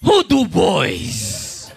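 slow, hammed-up flamboyant query; flamboyant doctor. Flamboyant doctor looking for his patient, flamboyant. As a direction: draw the question out with camp flourish. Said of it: "real flamboyant".

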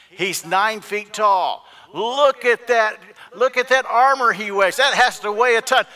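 high, loud shouts of alarmed awe; alarmed shouting. Acted. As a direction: cry out in alarm at the enemy's size. Acting out soldiers awed by giant.

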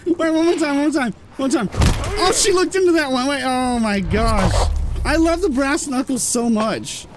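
high, excited outburst after laughing; gleeful excitement. Real, not acted. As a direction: blurt it out, high and delighted.

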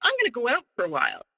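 lightly put-on innocent helper voice; mock innocent. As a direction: sweeten it up, playing innocent to lure him. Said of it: "here's where I'm being manipulative".

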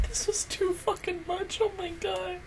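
breathless, hushed whisper of disbelief; overwhelmed whisper. Real, not acted. Fan reacting to an emotional episode, whispering. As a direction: whisper it, barely holding together.

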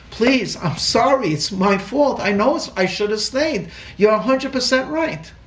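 pleading apology. Retold or imitated. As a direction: beg forgiveness, all blame on himself. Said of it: "And I began to apologize".

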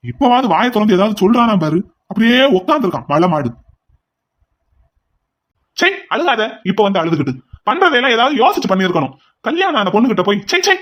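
exasperated outburst with swooping pitch; disgusted scolding. Acted. Scolding the silent brother who shamed the family, disgusted. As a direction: tear into him in disgust.

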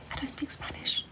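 breathy high whisper, almost silent. Real, not acted. Whispering to her live-stream viewers, high and hushed.

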